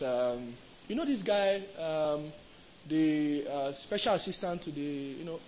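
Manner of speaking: put-on affected returnee-from-abroad accent; mock a put-on UK and States accent, full of fillers; put-on foreign accent. Preacher mimicking Nigerians just back from the States, affected foreign accent. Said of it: "You see that accent? We put it on".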